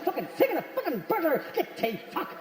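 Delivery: fed-up hushed grumble at a wasp; exasperated swatting. Shown as a demonstration. Shooing the burglar like a wasp at a picnic, exasperated. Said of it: "Like it's a wasp".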